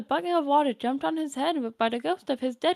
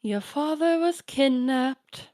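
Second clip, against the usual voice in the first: lightly voiced doting grandmother; a hint of a kindly old granny; old grandma voice; slower than usual. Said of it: "my Nana voice".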